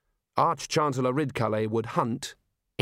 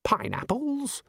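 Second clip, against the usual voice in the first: high, slow incredulous question; baffled disbelief; surprised; 12 semitones higher, slower than usual. Acted. Ridcully hearing pineapples are deadly, high surprise. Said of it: "his expression changed".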